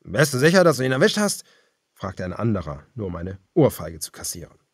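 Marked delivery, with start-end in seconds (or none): 0.0-1.4 higher, louder questioning voice; a cannibal asking his boss; doubtful henchman. A narrator's reading. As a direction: question the leader nervously. Another cannibal questioning the leader.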